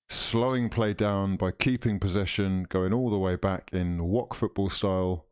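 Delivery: TV match commentator voice; live commentary. Acted. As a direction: call the match like a broadcaster. Commentary continues.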